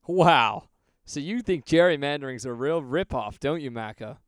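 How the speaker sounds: loud cheesy TV salesman pitch; infomercial voice. Pretend. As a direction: sell it like a cringy infomercial. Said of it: "cringy, like, tele infomercial voice".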